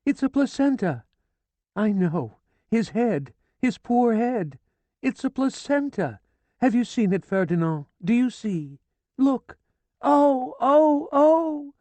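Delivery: shrill, high, loud wailing of a distraught woman; hysterical screaming. A narrator's reading. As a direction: scream it as if your throat were cut. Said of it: "She screamed like her throat had been cut".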